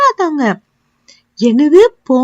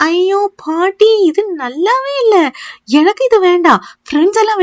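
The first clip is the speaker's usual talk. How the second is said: whiny protest; 4 semitones higher than usual. Acted. Child whining to grandma, refusing the pongal. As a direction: drag it out like a sulking kid.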